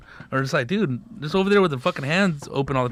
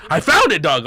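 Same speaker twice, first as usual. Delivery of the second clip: excited find; 3 dB louder than usual. Retold or imitated. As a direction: announce the find with a burst of glee. Triumph finding hidden rig.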